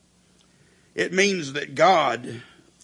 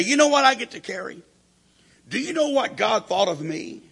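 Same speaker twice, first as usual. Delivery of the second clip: much higher, bright joyful exclamation; rejoicing; 8 semitones higher than usual. Pretend. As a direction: beam with pride at the burden. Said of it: "respond with rejoicing".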